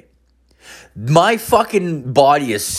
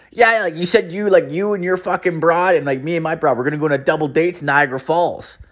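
lightly voiced pal, higher pitch; insistent buddy; 6 semitones higher than usual. Buddy reminds him of the Niagara double date, lightly acted insistence. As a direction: imitate a friend eagerly recapping the plan.

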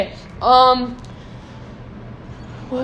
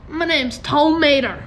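slightly higher drawling tow-truck voice; lightly voiced hillbilly tow truck; Mater impression; 5 semitones higher than usual. Shown as a demonstration. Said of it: "it's more like".

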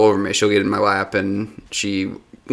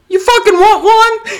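mock drunken challenge; 5 dB louder than usual. Drunk and challenging the cat, a hammed-up yell. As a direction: bellow the dare like a drunk brawler. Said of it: "and I just hear".

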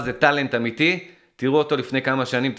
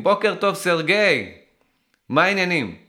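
higher, bright mock hello to Sergey; mock chirpy greeting; 5 semitones higher than usual. Mocking an aging botoxed model, chirpy and higher. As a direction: parody an over-eager model saying good morning.

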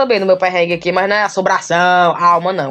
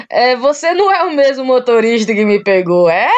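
imitating an amused, puzzled question; retold laughing; 3 semitones higher than usual. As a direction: laugh first, then ask through it. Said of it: "Aí eu rindo, né?".

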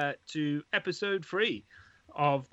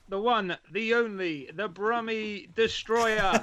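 announcer voice; 6 semitones higher, slower than usual. Acted. Announcing guest like wrestler.

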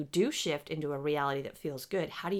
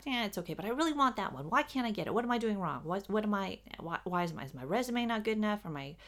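mock-frustrated complaining, pitched higher; frustrated whining; 4 semitones higher than usual. Job seeker grumbling about a rejection, in a mock-frustrated whine. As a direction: play someone fed up, asking why over and over.

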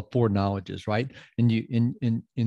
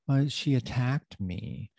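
mildly whiny mock victim; mock hurt complainer; 3 semitones higher, slower than usual. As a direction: imitate someone who feels victimized. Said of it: "I say that in that voice".

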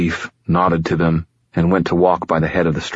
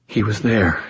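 higher, haunted voice; shuddering; 4 semitones higher than usual. A narrator's reading. Injured girl recalls the attacker, shuddering. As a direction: repeat it as if reliving the horror. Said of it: "She shuddered".

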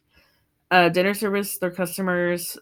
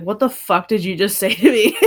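mock angry Gordon; 3 semitones higher, 7 dB louder than usual. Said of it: "he's like".

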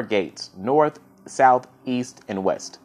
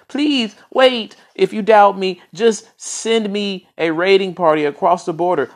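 much higher, loud frantic pleading; panicked pleading minister; 7 semitones higher, 4 dB louder than usual. Acted. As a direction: talk fast to save your skin, voice pitched way up. Minister begs the angry king.

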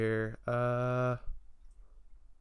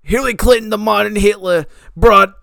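put-on panicky old man. Same panicky character.

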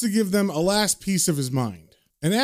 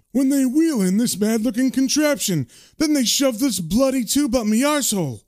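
high-pitched, animated, indignant patient; Matt telling his tale; 6 semitones higher than usual. Acted. Matt tells John of his hospital ordeal, high and indignant. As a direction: build the outrage in a raised voice. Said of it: "he gets really serious and he says".

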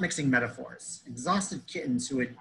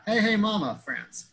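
raised, punched greeting falling away on the name; Franz; 7 semitones higher than usual. Retold or imitated. Confirming the memory of Franz, imitated greeting. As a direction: echo the friend's catchphrase impression.

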